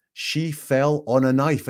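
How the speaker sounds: slow, each word of "She fell on a knife" placed deliberately; exact and precise. Retold or imitated. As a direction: spell out "She fell on a knife" like a stated fact, slowly. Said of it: "that is said with exact preciseness".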